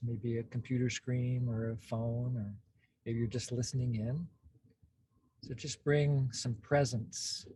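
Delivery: calm, unhurried guidance with long pauses; guided meditation. Real, not acted. Host guides group into present experience, calm meditation voice. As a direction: lead them gently into noticing, leaving space between phrases. Leads a self-connection exercise.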